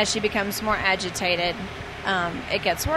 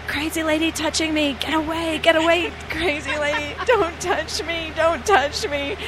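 high, indignant mock yell; passenger yelling; 8 semitones higher than usual. Passenger yells at the flight attendant, high mocking voice. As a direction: shoo off the crazy lady. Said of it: "you start hearing".

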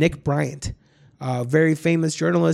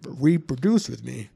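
low, slow, otherworldly alien voice; drawn-out creepy alien voice; 4 semitones lower than usual. Retold or imitated. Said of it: "He'd make this alien voice".

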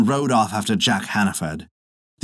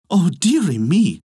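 put-on higher, slow old woman's sigh of pity; pitying old wife; 6 semitones higher, 4 dB louder, slower than usual. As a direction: cluck over the poor husband. Old wife pities her husband.

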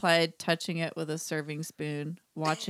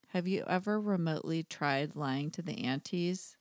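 softer, conspiratorial question; hushed aside; 2 semitones lower, 5 dB quieter than usual. A narrator's reading. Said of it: "I whispered".

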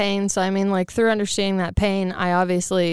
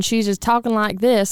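lightly mimicked Southern twang; Southern accent. Friend teasing her on the porch, in mock Southern twang. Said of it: "some fucking Southern shit".

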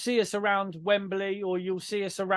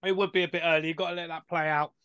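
slurping drink; 3 semitones lower, faster than usual. Real, not acted. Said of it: "Sorry to everyone if I'm slurping my drink".

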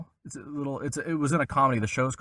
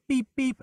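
mock censor beep; 13 semitones higher than usual. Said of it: "you know, beep".

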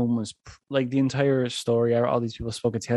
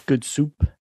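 lightly imitated TikTok catchphrase; Adam Driver; 3 semitones higher, 3 dB louder than usual. Quoting the actor's TikTok for listeners, light imitation. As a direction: quote the clip with a hint of mimicry. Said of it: "Adam Driver in the TikTok, he goes".

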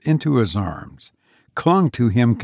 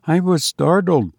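put-on higher girl's voice, mildly startled; startled young woman; 6 semitones higher than usual. A narrator's reading. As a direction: admit it in a higher, girlish voice. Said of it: "she said slowly".

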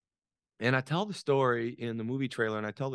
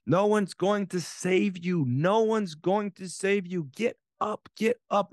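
higher, urgent mock yell; retold yell; 5 semitones higher, 4 dB louder, slower than usual. Coaches yelling at exhausted players, retold as an urgent raised-voice yell. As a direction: imitate someone yelling out to the fallen. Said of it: "and someone yelled".

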